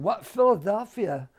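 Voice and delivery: high, incredulous teasing questions; kidding disbelief. Retold or imitated. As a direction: tease him with mock astonishment. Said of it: "they were all kidding him".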